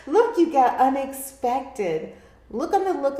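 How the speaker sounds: giggly and loud, high and slowed; still laughing. Real, not acted. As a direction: keep laughing through the words. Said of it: "I started laughing".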